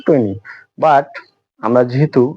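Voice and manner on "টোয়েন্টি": "টোয়েন্টি" with a plain hard t; "টোয়েন্টি" as many say it, unaspirated; common pronunciation. Shown as a demonstration. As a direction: say "টোয়েন্টি" without aspiration. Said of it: "অনেক উচ্চারণ করি".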